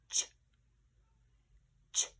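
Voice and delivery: "ch" as a short isolated sound, no vowel; sound dictation. Shown as a demonstration. Teacher dictating sounds to pupils, "ch" alone and short. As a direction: say only a crisp "ch", pause, repeat. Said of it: "our sound dictation".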